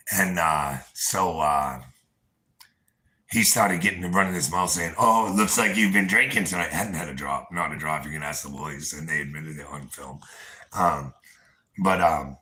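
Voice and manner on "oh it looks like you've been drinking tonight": louder mock quote of a mouthy rival; retold loud accusation. Man retelling rival's drinking accusation, mildly loud imitation. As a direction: imitate him running his mouth, a bit raised. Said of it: "real loud".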